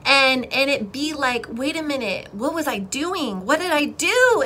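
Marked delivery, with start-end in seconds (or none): 1.5-4.4 higher-pitched, acted dismay; panicked regret. Imagining someone at the end of life, panicked regret. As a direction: plead as if realizing it too late.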